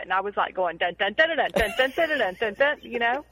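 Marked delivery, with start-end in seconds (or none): 0.8-2.8 sing-song trumpet reveille, voice only; mock trumpet call. Telling daughter how camp wakes kids, mock trumpet call. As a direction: toot it out like a bugle waking campers. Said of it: "With a trumpet".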